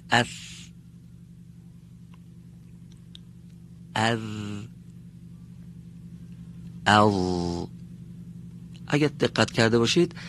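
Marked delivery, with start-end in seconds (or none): 0.1-7.7 اف and از thin with a flat wide mouth, ال heavy; letter drill, stopped letters; letters with sukun. Shown as a demonstration. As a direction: say اف, از and ال short and stopped. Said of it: "توجه بفرمایید".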